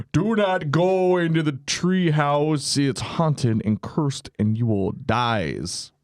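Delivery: put-on slow, ominous old man warning; lightly voiced creepy old man.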